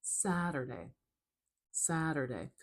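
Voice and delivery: "Saturday" falling away after a stressed first syllable. Shown as a demonstration. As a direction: punch the start of "Saturday", letting the rest drop. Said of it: "higher pitched and a little bit louder and longer at the beginning".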